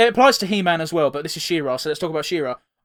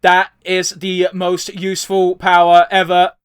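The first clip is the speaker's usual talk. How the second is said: slow, louder robot voice; 6 dB louder, slower than usual. Pretend. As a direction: speak like a robot. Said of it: "I said it like a robot".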